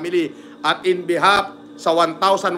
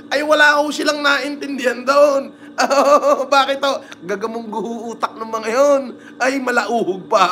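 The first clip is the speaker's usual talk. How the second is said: mocking the critics while laughing; amused, teasing delivery with laughs; 6 semitones higher than usual. Real, not acted. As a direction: chuckle through the jab.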